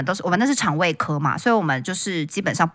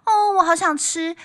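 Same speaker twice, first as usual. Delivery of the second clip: put-on higher, very slow coaxing old woman; old lady craving; 4 semitones higher, 3 dB quieter, much slower than usual. An old patient telling her husband her craving, in a coaxing old woman's voice. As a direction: draw it out like a pleading grandma. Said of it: "那个老婆婆就说".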